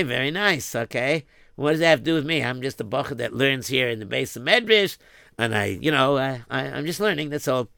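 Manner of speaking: put-on the shy boy. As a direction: answer timidly, humbly. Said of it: "the boy answers the count".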